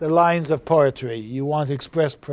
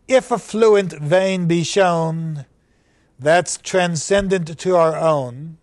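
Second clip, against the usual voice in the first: slow reading of verse; poem recitation. Acted. Teacher reads the verse to the class, measured recitation. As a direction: give each verb of the list its weight.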